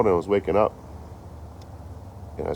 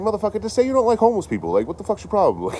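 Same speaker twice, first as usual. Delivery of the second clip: mock angry rant; 13 semitones higher, faster than usual. Retold clash with the neighbour.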